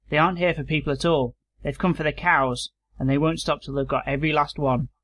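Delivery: put-on reading a pulp sci-fi tale in his own voice, no accent; narrating a farmer's yarn without putting on an accent; story read aloud.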